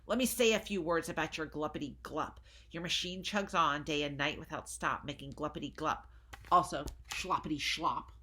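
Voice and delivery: a hint of an angry Lorax; lightly voiced angry Lorax. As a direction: scold the Onceler, dander up. Lorax scolding read aloud.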